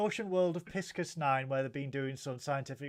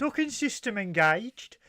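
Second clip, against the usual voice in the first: computer voice; 6 semitones higher, 5 dB louder than usual. Pretend. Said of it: "Do the voice".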